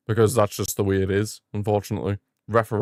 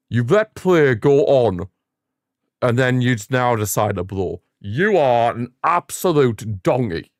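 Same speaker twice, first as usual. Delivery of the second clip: slow angry berating; slower than usual. Real, not acted. Berating the referee.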